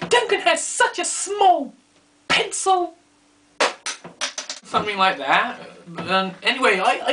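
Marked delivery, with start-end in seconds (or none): 0.1-3.0 high, slow mock girly taunt; imitating Gwyn's taunt. Gwyn mocking Duncan in her next video, high and slow. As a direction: drawl it out high to tease. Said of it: "She'll say something like".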